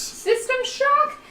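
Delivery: high, slow disbelieving echo; incredulous. Real, not acted. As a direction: repeat it in shocked disbelief. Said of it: "incredulous echo of the rule".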